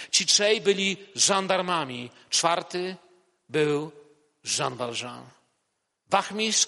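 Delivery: a preacher reading a novel passage aloud to the congregation; story reading. A narrator's reading. Preacher reads the bishop scene to the church, in a calm narrating voice. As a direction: read it as a steady story narration, voicing each figure lightly.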